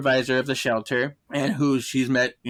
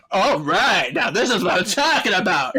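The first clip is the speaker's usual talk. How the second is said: higher, pumped-up approval; retold approval; 4 semitones higher than usual. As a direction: imitate someone getting into the music. Retold delight at rock sound.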